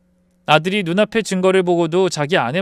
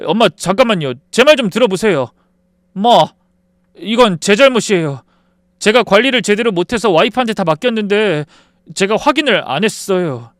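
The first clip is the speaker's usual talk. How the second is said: a son pleading with his mother, voice raised; 5 semitones higher, 6 dB louder than usual. Acted. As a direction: beg her to hear you out. Son pleading, taking the blame.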